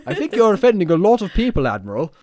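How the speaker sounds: high, loud mock protest; hammed-up aide scolding his superior; worried underling. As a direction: pipe up in exaggerated high-pitched objection. Acted aide rebukes the Admiral.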